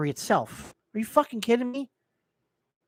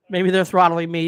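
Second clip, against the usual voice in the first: laughing; 5 dB louder than usual. Real, not acted. Laugh heard on line.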